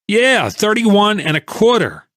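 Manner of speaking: angry holder mocking the price he was told; bitter repeat. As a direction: throw the figure back at him in disbelief. Angry man repeats the price back.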